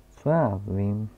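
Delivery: put-on loud, slow, self-important old scholar; old geographer. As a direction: announce your title with pompous weight. Geographer character voice. (hlasitý, pomalý a důležitý starý zeměpisec)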